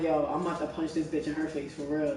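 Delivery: low, soft retold threat; retold own threat. Telling how she meant to defend her friend, low understated threat. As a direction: recount your own threat quietly and low. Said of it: "and I'm like".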